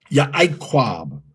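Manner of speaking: "Ya'aikwab" with an I vowel sound. Shown as a demonstration. Teacher showing the common reading, Ya'aikwab. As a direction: say "Ya'aikwab" the One West way. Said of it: "we would say".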